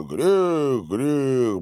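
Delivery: ordinary delivery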